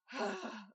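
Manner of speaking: long tired exhale; weary sigh. Acted. Salesman sighing as he gives up on Ethel. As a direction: sigh like you've given up. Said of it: "And he just goes".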